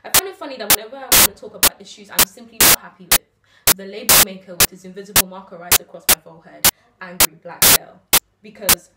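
rhythmic spoken-word delivery with deliberate pauses; slam poem recital. Acted. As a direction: perform it as a heartfelt slam poem.

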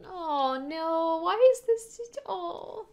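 high, rising, loud anguish; distressed. Real, not acted. Viewer cries out at the sad scene, high and loud. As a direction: voice climbs in dismay.

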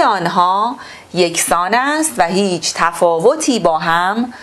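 measured, formal reading-aloud voice; textbook reading. Acted. Teacher reading the textbook to pupils, formal and measured.

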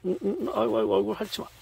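high loud groaning protest; rudely awakened. Real, not acted. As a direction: wake up annoyed, licked awake. Woken, pet licking face.

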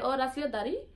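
islander's question with Saint Thomas lilt, rising end; Virgin Islands accent. Retold or imitated. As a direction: ask it like a Saint Thomas local. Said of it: "sometimes they be like".

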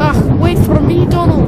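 loud, slow call from far behind; shouting. A narrator's reading. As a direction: yell after him to stop. Douglas calling after brother.

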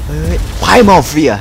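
drawn-out, loud skill name; dramatic slow callout. Pretend. Gamer hams up the skill name for viewers, slow and loud. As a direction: announce the move like a hero.

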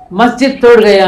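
loud mock yell of the rumour; shouting the news to the crowd, loud; retold shout. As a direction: call it out like an alarm. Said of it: "గట్టిగా కేకలు పెట్టాడు".

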